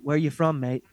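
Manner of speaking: light mock English accent on the question. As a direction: tease the ref with a half-hearted English accent. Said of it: "he talks with a fucking accent".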